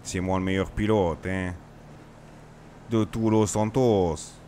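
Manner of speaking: lightly voiced cocky pilot, last words drawn out slowly; a touch of swagger, slowing on los Santos; boastful Dove. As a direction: brag like the king of the skies. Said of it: "je commence à être dans mon perso".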